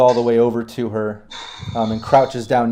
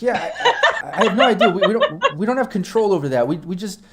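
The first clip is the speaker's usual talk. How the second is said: flustered laughing; 5 semitones higher than usual. Acted. Med tech flustered, GM laughing.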